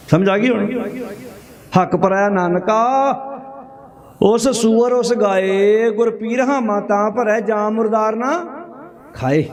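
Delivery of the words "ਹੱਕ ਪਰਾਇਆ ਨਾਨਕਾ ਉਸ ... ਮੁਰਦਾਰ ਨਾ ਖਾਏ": slow, drawn-out verse recitation; measured Gurbani recital with long-held words; scripture recitation. Acted. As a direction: recite the sacred couplet slowly, stretching the line endings.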